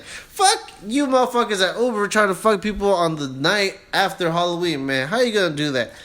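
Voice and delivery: loud, high-pitched outraged rant; angry rant. Real, not acted. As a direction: vent at full volume. Ranting about Uber surge prices.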